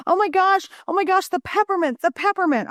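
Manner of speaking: high-pitched mock wailing kid; imitated crying child. Third grader cries to mom about peppermint, imitated high wail. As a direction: act out a panicked child crying, without real sobs. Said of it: "He's crying and he's like".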